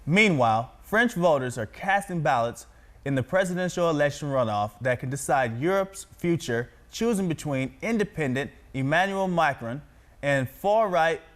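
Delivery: projected, evenly paced news anchor read. Shown as a demonstration. Reads the next news story.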